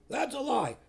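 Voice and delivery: high, loud mock screaming curse; hammed-up furious rant, pitched high and loud; retold hysterical curse. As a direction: imitate a woman shrieking curses at the priest. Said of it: "she starts screaming in hysteria at me".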